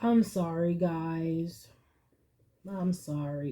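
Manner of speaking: low, quiet apology held back from tears; choking up. Real, not acted. Reader apologizing to viewers as the reading hits home, choked up. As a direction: apologize softly, fighting real tears.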